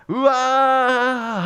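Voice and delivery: long drawn-out "aah" war cry; battle cry. Shown as a demonstration. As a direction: let out a drawn-out mock battle yell. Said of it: "함성을 지르라는 겁니다". (길게 내지르는 함성)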